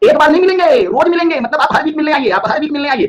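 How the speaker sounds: high-pitched, pressing principal act; mock insistent demand. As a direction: insist like a principal summoning a parent. Acts principal demanding frequent parent visits. (नकली ज़िद, ऊँची आवाज़ में)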